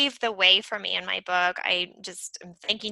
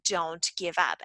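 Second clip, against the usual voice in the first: softer, lower, gently urging; soft encouragement; 6 semitones lower, 6 dB quieter than usual. Retold or imitated. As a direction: coax them quietly not to quit. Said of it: "that was the whole point".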